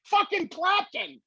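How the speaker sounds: high, stretched-out amazement; awed disbelief. Real, not acted. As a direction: say it like you can't believe who's there. Awed exclamation.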